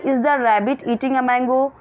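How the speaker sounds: slow, clear classroom read; slow reading aloud. Shown as a demonstration. Teacher reading the question to her pupils slowly. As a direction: read each word out very slowly.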